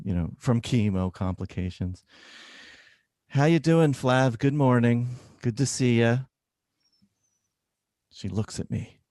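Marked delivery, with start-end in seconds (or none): 3.3-6.2 higher, louder upbeat greeting; mock-cheerful bedside manner; cheery doctor. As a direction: brightly greet the patient. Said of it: "greeting patient, doctor voice".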